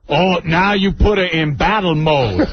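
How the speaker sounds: imitated Hispanic-Black boyfriend's accent; mock-dismayed line in Hispanic-Black dialect. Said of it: "it was a mixture between the Hispanic black".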